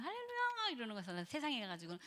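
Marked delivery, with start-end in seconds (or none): 0.0-0.7 sing-song hallelujah pitched far up; mock churchy hallelujah. Preacher mocking a churchgoer's showy hallelujah. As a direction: parody a showy believer's hallelujah. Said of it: "막 이러면서".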